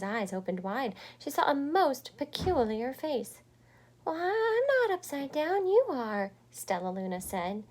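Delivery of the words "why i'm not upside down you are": put-on young bat protesting.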